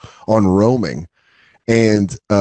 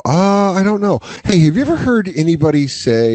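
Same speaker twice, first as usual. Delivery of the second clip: comic premise voice; 7 semitones higher than usual. Pretend. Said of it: "you go".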